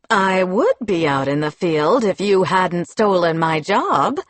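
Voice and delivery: speaking through gritted teeth; clenched jaw, bitter. Acted. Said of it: "Newlin said through gritted teeth".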